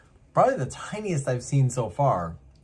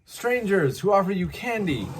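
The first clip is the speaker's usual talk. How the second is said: very high, loud mock refusal; high squeaky retort from the window; refusing; 12 semitones higher, 4 dB louder than usual. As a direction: protest in a squeaky voice. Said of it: "retorting to the stranger".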